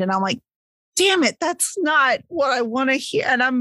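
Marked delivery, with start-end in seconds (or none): 1.0-3.2 retold dismay. Retells dismay at friend's answer.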